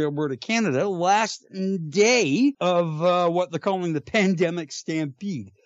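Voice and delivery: fake Canadian accent. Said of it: "a fake Canadian accent done by, uh, by a genuine Canadian".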